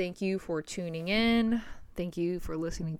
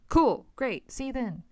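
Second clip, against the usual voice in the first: sarcastic curt reply; 4 semitones higher, 3 dB louder than usual. Retold or imitated. Sarcastic reply to sister's quip.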